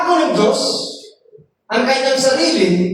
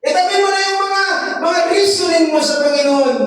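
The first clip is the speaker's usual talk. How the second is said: God's message; 6 semitones higher than usual. Acted. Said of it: "ang nais ng Panginoon na sabihin".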